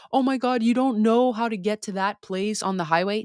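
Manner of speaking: high, put-on shocked voice; mock incredulity. Imagined critic to someone who needs GPS, high mock incredulity.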